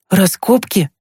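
put-on high boyish question; agitated interest. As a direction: ask back high, stirred by the news. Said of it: "заволновался Тимкин и уточнил". (взволнованно переспросить высоким голосом)

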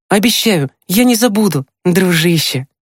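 put-on high, fond boy's voice; tender. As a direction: promise a beloved dog tenderly in a high voice. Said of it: "С нежностью повторил он". (нежно, высоким мальчишеским голосом)

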